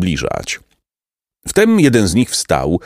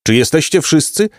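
higher-pitched call to the band; mild commanding shout; 8 semitones higher than usual. A narrator's reading. Bandit chief checks his band is all there, calling out. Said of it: "zakrzyknął".

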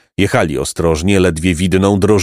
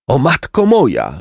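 raised-pitch, sobbing invocation, understated; emotional cry; 6 semitones higher than usual. A narrator's reading. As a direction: call out overcome, without shouting. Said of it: "zawołał".

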